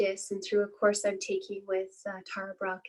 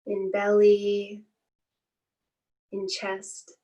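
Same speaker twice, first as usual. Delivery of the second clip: calm, unhurried meditation guiding with long pauses; guided meditation. Acted. Teacher leading listeners through a body scan, calm guided-meditation voice. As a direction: ease listeners into stillness, phrase by spaced phrase.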